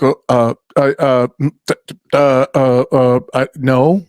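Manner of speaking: imitating a confused, stammering stranger; flustered stammer. A fair vendor, caught off guard by the joke, stammering. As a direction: stumble over the uh's like someone caught off guard. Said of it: "most people look at me like".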